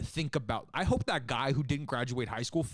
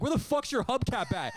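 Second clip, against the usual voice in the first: high-pitched mock angry comeback; imitated yelling, pitched well up; retold road-rage insult; 10 semitones higher than usual. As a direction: fire it back like an arguing driver. Retold road-rage shouting match.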